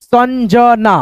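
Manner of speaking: संजना split as सन, ज, ना; drawn-out teaching version of संजना; syllable-by-syllable reading. Shown as a demonstration. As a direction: sound out संजना piece by piece. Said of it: "इस बिंदी को हम लोग न पढ़ते हैं".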